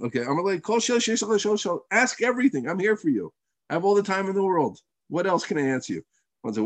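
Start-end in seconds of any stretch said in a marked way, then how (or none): 0.6-6.0 high-pitched, eager welcome; generous reassurance. Retold or imitated. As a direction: offer yourself completely, imitating a patient sage. Hillel voiced offering all his time.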